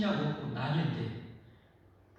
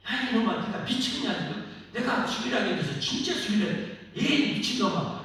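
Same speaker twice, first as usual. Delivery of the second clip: a hint of an exasperated God scolding, louder; 3 semitones higher, 4 dB louder than usual. Preacher voicing God scolding Abraham, mock exasperated. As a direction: tell him off like a fed-up father. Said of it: "하면서 아마 그랬을 것 같아".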